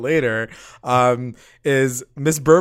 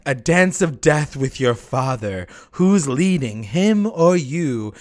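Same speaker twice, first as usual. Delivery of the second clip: therapist voice; 3 dB louder, slower than usual. Retold or imitated. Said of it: "She says, like".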